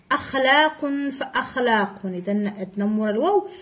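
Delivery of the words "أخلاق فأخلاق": فأخلاق with a glottal stop after fa; hamza kept. Shown as a demonstration. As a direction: sound the a of أخلاق even after ف in فأخلاق. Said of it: "باقي نطقنا الهمزة".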